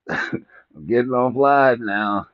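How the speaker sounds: slow, lightly voiced stoned host signing off; imitating a stoned streamer. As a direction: drag out the goodbye like you're high. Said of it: "you be like".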